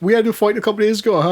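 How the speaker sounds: quick imitated tearful babble; fast, half-hearted sobby retelling; mock crying. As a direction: rush it out as a weepy wife. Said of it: "called me one time crying".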